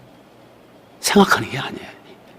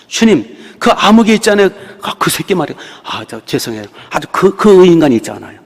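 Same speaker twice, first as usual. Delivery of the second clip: put-on childish tattling; 3 semitones higher than usual.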